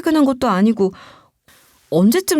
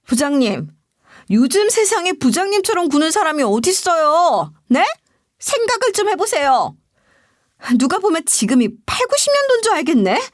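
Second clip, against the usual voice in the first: higher-pitched acted indignation; angry warning; 5 semitones higher than usual. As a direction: warn the boss off, fed up but not shouting. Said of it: "부장에게 경고를 해놨어요". (격앙된 경고 말투)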